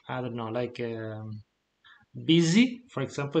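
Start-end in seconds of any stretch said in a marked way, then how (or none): 2.3-2.8 "busy" with its S buzzed like a Z; voiced Z sound in "busy". Shown as a demonstration. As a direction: say "busy" with a vibrating S. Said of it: "a different kind of S".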